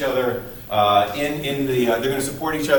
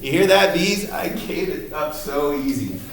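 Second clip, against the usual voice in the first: mock yell; 3 semitones higher than usual. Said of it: "then she yells".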